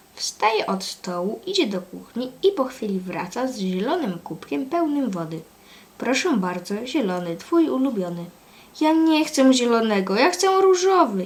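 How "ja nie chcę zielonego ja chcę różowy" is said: loud, high, whiny, fussing voice. A three-year-old girl answers her dad, whining. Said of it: "jęczy Lenka".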